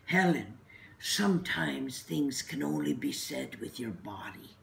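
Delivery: light Irish lilt on the nun's words; imitating Sister Lillian's Irish accent. Nun quoted to her friend, in a light Irish accent. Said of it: "she said in her Irish accent".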